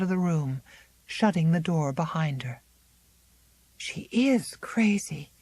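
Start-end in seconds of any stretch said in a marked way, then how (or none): 3.8-5.3 breathless frightened whisper. Acted. Miranda whispering to herself after Zélie leaves. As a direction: whisper it alone in the dark. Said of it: "whispered Miranda".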